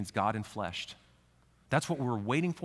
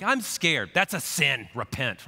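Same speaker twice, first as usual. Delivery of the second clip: mock harsh rebuke; 2 semitones higher, 6 dB louder, slower than usual. Religion answering a frightened child, loud mocking scold. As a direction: scold the scared kid like a preacher.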